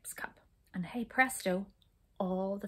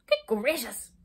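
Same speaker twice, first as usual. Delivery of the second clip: mild gasp; 3 semitones higher, 6 dB louder, slower than usual. A narrator's reading. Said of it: "gasped Jump".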